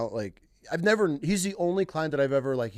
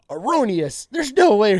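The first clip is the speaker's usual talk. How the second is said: high, laughing mock-pompous voice; haughty denial, higher and louder, through laughter; mock indignant denial; 8 semitones higher, 9 dB louder than usual. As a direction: ham up a client who refuses to believe he missed. Client denies missing, mocked high.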